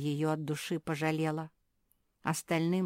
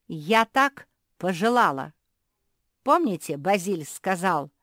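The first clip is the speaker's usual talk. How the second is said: gloating queen; 7 dB louder than usual. A narrator's reading. Gloating queen after laughing.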